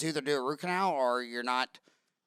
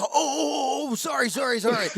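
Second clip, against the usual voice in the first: mock flustered apology; 7 semitones higher than usual. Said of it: "He go".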